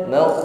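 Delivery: "Makh" with a heavy throat-rasped kh; "Makh" closing on a full, heavy kh; thick kha. Shown as a demonstration. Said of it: "tebalkan pengucapan kha".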